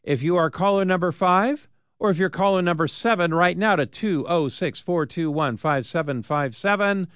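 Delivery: upbeat radio contest pitch; radio contest promo. Acted. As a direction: hype the ticket giveaway to callers. Contest call to listeners.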